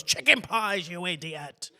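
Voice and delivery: high-pitched mock outburst; flipping out. Host imitating the film character flipping out over pies, mock-angry. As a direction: imitate a sudden exasperated snap. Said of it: "flips out and goes".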